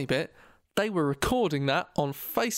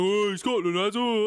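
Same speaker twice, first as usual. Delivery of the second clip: mock excitement; 3 semitones higher than usual. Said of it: "and go".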